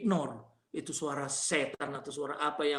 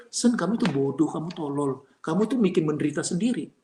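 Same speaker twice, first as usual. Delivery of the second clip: mildly scolding, emphatic retold rebuke; scolding friend; 5 dB louder than usual. Friends scolding Sen for making himself suffer, mild rebuke. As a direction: tell him off like an exasperated friend.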